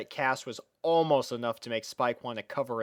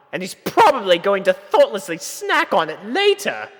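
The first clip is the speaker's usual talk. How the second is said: much louder, higher, exasperated ranting; indignant Rarity outburst; 11 semitones higher, 12 dB louder than usual. A narrator's reading. Rarity fuming inwardly about the sapphire, loud and indignant. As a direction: shout it out in dramatic outrage. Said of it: "bit her arm in a conflict".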